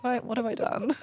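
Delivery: mock panic. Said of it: "And I'm like".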